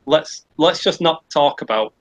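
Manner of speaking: slow, halting imitation of a mate; searching for words. Mate on an awkward date changing the subject, searching for words. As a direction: stall as if hunting for a safe topic. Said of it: "I can see him searching".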